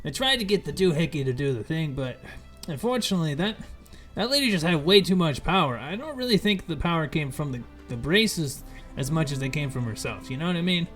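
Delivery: high, chipper trader voice; goofy merchant voice. Acted. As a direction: greet them like a shifty peddler. Fizban continues.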